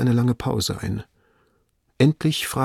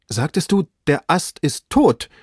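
trembling voice; 6 semitones higher than usual. A narrator's reading. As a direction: ask as if dreading the answer. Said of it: "rief Legrand mit zitternder Stimme".

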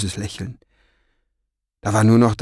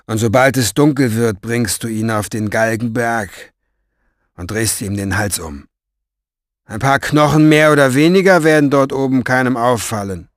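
callous Orpheus; 4 dB louder than usual. Acted. Orpheus orders Farid killed.

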